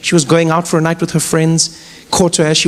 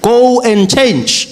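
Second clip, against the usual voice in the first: stern father; slower than usual. Retold or imitated. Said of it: "father scolding daughter".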